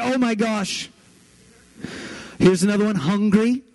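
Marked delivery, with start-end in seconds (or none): 0.0-0.9 high, swooning imitation; higher, lightly gushing voice; mock cuteness overload. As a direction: pretend to melt at something adorable. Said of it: "fall over dead with cuteness attack".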